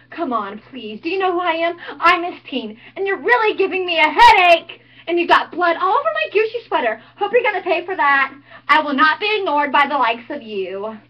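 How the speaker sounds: mocking, sarcastic cheerleader taunting a killer; Buffy monologue. Snooty cheerleader mocking the masked killer, sarcastic.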